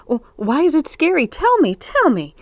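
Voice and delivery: high, quick, eager pleading; excited child's cry. A narrator's reading. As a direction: beg like an impatient little boy. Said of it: "cried George".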